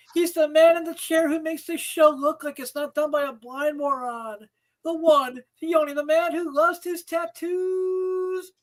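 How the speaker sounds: building ring announcer hype; announcer intro. Acted. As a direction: announce him like a wrestler. Hyping up cohost introduction.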